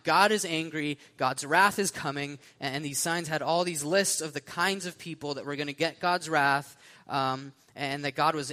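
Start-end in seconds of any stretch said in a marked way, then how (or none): 0.0-2.4 raised voice, punching out each warning; mild retold scream; mock screaming protester. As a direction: imitate a megaphone preacher, only partly shouted. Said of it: "they're screaming out".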